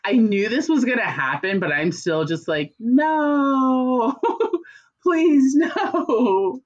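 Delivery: high, whiny fake-crying plea; mock pleading whine. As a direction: whimper it like a dramatic protest. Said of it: "And I remember seeing that and be like".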